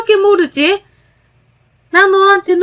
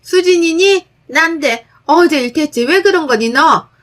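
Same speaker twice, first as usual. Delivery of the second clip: high, loud berating on the phone; mother-in-law yelling at daughter-in-law over the phone, angry and loud; angry scolding mother-in-law; 6 semitones higher, 4 dB louder than usual. Acted. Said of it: "시모에게 전화가 왔고 욕 한 바가지를".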